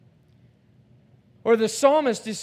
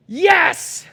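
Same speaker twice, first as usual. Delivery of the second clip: high, loud triumphant yes; full-on shout; 9 semitones higher, 8 dB louder than usual. Acted. Psalmist shouting to God in triumph. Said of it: "it is a full-on shout".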